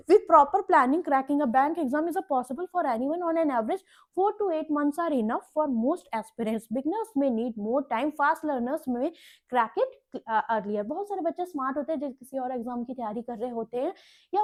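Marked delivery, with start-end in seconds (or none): 0.1-10.8 measured, drawn-out reading of English headings; slow slide reading. Acted. Teacher reading exam tips aloud to bank aspirants, slow and deliberate. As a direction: spell each point out slowly for the class.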